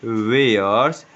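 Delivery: "वेयर्स" slowly, both syllables clear; slow clear word. Shown as a demonstration. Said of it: "क्या पढ़ेंगे". ("वेयर्स" धीरे और साफ़)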